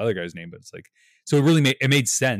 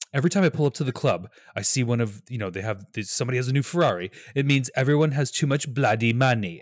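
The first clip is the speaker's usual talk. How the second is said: mock British accent, quick and a bit higher; bad British accent; 4 semitones higher than usual. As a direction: do Nicolas Cage's failed British accent, lightly. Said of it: "were you going British there".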